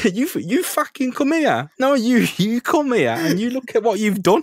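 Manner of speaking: high, loud, mouthy British geezer rant; British thug Spider-Man. Pretend. British Spider-Man refuses to pay the doctor, loud British rant. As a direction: play a mouthy British lad kicking off at the doctor. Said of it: "Imagine if Spider-Man was British".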